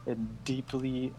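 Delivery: soft, solemn YouTuber apology; apology video voice. Pretend. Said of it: "YouTuber apology video voice".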